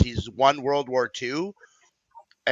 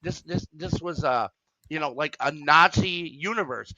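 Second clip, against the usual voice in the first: incredulous; 4 semitones higher than usual. Retold or imitated. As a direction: ask how he could miss it, stunned. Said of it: "and she goes".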